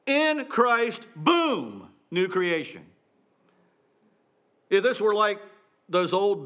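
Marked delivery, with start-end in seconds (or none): 0.0-2.8 "boom" dropped like a sudden blast; quick, punchy preacher paraphrase; punchy emphasis. Shown as a demonstration. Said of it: "It's like".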